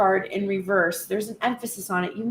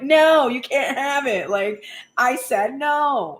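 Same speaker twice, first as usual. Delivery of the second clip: firm refusal; 3 semitones higher, slower than usual. Retold or imitated. Acted firm mom refusing her kid.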